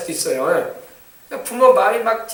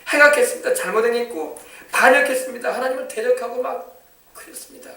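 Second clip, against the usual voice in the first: fervent confession; 5 semitones higher than usual. Shown as a demonstration. Preacher modelling an urgent repentant prayer. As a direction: cry each sin out. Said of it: "이렇게 기도를 하는 겁니다".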